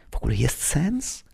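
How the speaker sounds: hushed, questioning whisper. A narrator's reading. Piotr asking under his breath at Christmas Eve, whispered. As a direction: whisper it softly, rising at the end. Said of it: "szepnął Piotr".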